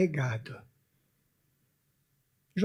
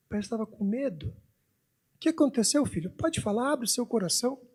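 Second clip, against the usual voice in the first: pai carinhoso; 3 semitones lower than usual. Retold or imitated. Pai consolando o filho, encenado. (pai falando manso com o filho)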